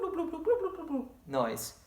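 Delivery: high, soft bubbly bloops; fish bloops. Shown as a demonstration. Teacher shows the fish action with high bloop noises. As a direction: pop out little fish bubbles. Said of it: "you can make a bloop".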